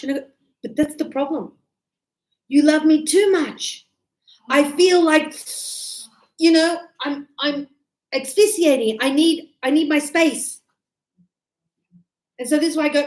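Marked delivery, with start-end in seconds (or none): 0.6-10.6 louder, mock-suffocated protest; mock exasperation. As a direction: play up the smothered lover, loudly. Teacher acts suffocated partner.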